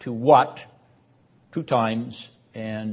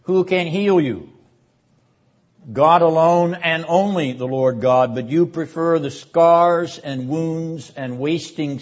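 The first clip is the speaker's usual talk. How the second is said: higher and louder, building then falling away; impassioned prophetic answer; 4 semitones higher, 4 dB louder than usual. Acted. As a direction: cry it out as the grieving prophet, then let it sink. Voices the implied answer.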